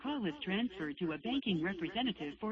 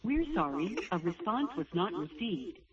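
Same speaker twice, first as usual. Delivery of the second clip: phone menu voice. Real, not acted. Automated bank phone menu.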